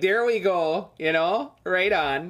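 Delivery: overdone, exaggerated Minnesota accent. The speaker shows off an accent they can do: exaggerated Minnesotan accent. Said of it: "I can do an exaggerated Minnesotan accent".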